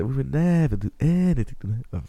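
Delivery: imitated film line with swooping stress on NEVER and ANYTHING; mock misplaced stress. Podcaster mocks a clip to co-host, odd stress on NEVER and ANYTHING. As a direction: lean oddly on "never" and "anything". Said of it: "des accents toniques quand il parle à des drôles de place".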